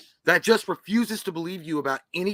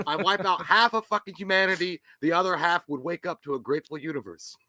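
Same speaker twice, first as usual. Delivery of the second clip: laughing through the words. Real, not acted. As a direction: chuckle while saying it. Laughing while joking.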